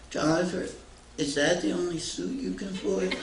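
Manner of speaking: put-on sweet little girl's voice, pitched high; very sweetly. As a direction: ask it sweetly, like a cheeky young girl. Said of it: "very sweetly".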